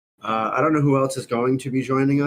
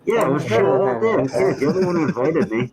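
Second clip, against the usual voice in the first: talking through a face mask; muffled voice. Real, not acted. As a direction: speak muffled behind a mask. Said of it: "can't understand you with that fucking thing on".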